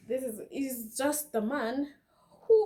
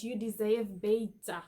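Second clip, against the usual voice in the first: "you deserve better" in a light South African accent, "deserve" as dizav, "better" as beta; a lightly voiced South African accent. Shown as a demonstration. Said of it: "In a South African accent".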